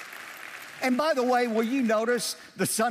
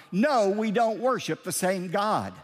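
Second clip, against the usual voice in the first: preaching shout. Acted. Preacher rebutting a claimed view.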